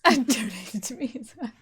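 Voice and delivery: put-on laughing echo of a German accent; mock German accent. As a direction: parrot a bad German accent through laughter. Mimics the GM's German accent.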